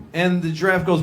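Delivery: ordinary talk, nothing marked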